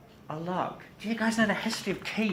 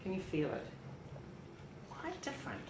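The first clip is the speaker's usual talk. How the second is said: softer and breathier; hushed, tactile; 4 semitones higher, 13 dB quieter than usual. Shown as a demonstration. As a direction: let the voice sink as you feel. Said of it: "Do you see the difference".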